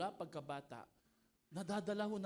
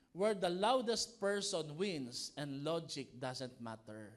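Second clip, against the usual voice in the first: mock welcome; 7 dB louder, slower than usual. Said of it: "Sabi dito".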